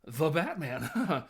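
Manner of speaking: lightly voiced dorky character, slow with a laugh; kind of dorky. Host mimicking a dorky Batman fan, dorky and giggly. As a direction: draw out the name with a dorky giggle. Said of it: "all kind of dorky".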